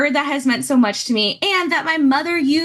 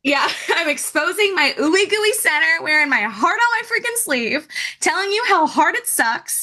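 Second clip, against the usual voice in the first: higher, tearful laugh in the voice; 6 semitones higher than usual. Real, not acted. Host owning her vulnerability, tearful. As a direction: push on through rising tears. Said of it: "Crying on a podcast".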